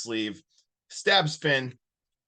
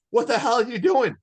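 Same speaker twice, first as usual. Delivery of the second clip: higher, louder shocked demand; retold alarm; 8 semitones higher, 6 dB louder than usual. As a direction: act out a startled confrontation. Retold shocked reaction to attacker.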